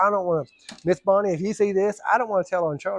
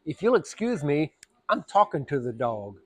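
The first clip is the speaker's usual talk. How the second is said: slow, lower, mock-courteous; dry polite put-down; 3 semitones lower, 4 dB quieter than usual. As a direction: dismiss her with fake manners.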